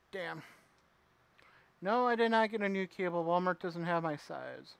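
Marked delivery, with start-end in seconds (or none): 1.8-4.8 glitchy robotic mic sound; distorted robot-like audio. Real, not acted. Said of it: "do I sound like a robot again?".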